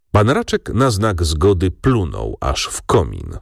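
usual speaking voice

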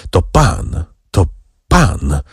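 mildly startled, halting words; understated fearful stammer; frightened stammer. A narrator's reading. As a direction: stammer it out with a pause before the last word. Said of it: "wyjąkał młodzieniec, rozglądając się wokół z przestrachem".

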